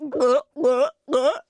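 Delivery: spoken gulp sounds; three short swallowing glugs. Acted. Drinker downs the house special, gulping.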